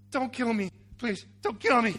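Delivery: loud, high-pitched begging; mock pleading. Bowing brother pleads with brother for his life, mock pleading. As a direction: beg for your life, hammed up. Acts out Jacob begging Esau.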